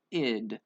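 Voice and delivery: "id" alone as a clear syllable; isolated ending. Shown as a demonstration. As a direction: sound out just the "id" ending. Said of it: "So we would pronounce it".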